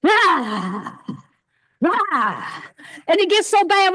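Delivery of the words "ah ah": shaking ah. Shown as a demonstration. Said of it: "we shaking it".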